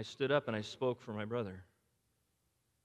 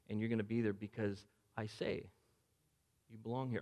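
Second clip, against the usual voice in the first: gentle Jesus; 2 semitones lower than usual. Acted. Jesus speaks to him in heaven.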